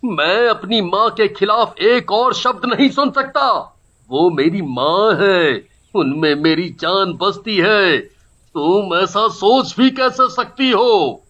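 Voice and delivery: indignant, emphatic son; angry husband arguing. Acted. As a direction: defend mother against wife's accusation. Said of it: "आपस में बहस हो रही थी". (पत्नी से बहस करता नाराज़ पति)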